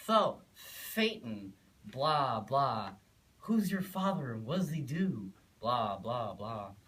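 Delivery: lightly voiced schoolboy, loud and pushy; taunting schoolboy. Schoolboy challenging Phaeton about his father, loud taunt. Kid taunting him on playground.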